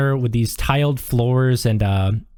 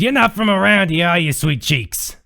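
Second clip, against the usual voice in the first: waitress voice; 4 semitones higher than usual. Acted. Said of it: "she says".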